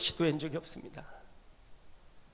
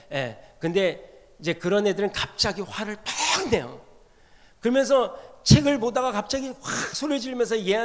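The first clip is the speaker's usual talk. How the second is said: usual speaking voice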